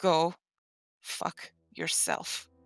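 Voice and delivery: breathy, barely voiced, muttered whisper. Voicing a captive kneeling on the ground: muttered under her breath. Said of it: "just under her breath".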